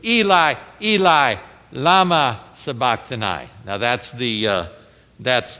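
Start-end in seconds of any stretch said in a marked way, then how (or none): 0.0-3.5 Eli, Eli, lama sabachthani read as Hebrew; Hebrew words. Shown as a demonstration. Preacher sounding out the Hebrew cry. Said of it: "He is saying in the Hebrew".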